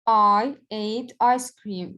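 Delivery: slow, even read of the example; slow teacher repeat, settled. Shown as a demonstration. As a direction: say the sentence slowly again, level. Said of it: "This is a statement".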